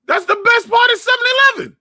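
high, loud outburst of disbelief; excited shout. Real, not acted. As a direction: yell it like she's crazy to doubt it. Defending beef patties.

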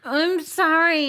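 yawning through the words. Real, not acted. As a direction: say it mid-yawn. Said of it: "You can't yawn".

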